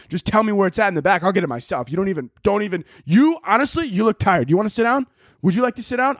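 high, gushing over-apologetic rush; frantic apology. Retold or imitated. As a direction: fall over yourself apologizing. Acted overapologetic gushing to waiter.

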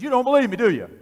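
high, forceful acted-out challenge; retold confrontational retort; loud challenge. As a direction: push it at the doubter, loudly. Acting out the man challenging him.

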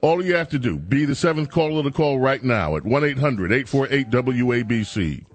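upbeat ad read over music; punchy radio giveaway announcer; radio contest promo. Acted.

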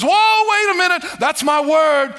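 God catching his own word; surprised God. Retold or imitated. Preacher voicing God, startled to hear his word. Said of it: "he says".

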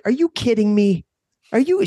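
put-on high, outraged little-girl voice; imitating toddler daughter. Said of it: "She was like".

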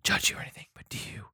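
hushed unvoiced whisper. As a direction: whisper it like a secret. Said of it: "Why are you whispering?".

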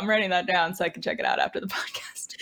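whispered aside with a laugh. Real, not acted. Host whispering to the group that he is jotting the tip down. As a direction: whisper it like a secret note. Joking aside while taking notes.

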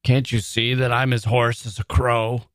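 rude, testy snap at the others; rough. A narrator's reading. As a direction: answer roughly, as a singer with a sore throat. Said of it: "said Mister Darcy roughly".

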